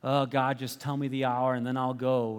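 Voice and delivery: half-hearted, low-pitched sigh of reluctance; lackadaisical. Retold or imitated. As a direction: play it mock weary and unbothered. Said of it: "is not doing so lackadaisically".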